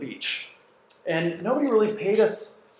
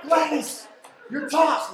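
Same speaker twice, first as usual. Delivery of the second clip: whisper yelling; 11 semitones higher, 5 dB louder, slower than usual. Retold or imitated. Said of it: "whisper yell".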